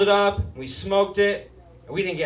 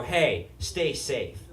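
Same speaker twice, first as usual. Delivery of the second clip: caring goodbye; 4 semitones lower, 5 dB quieter, much slower than usual. Retold or imitated. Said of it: "they go".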